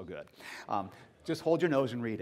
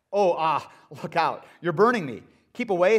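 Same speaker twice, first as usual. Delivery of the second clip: hammed-up alarm, a bit louder; mock panic; 6 dB louder than usual. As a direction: ghost yelping as the angel's heat burns. Ghost burned by angel.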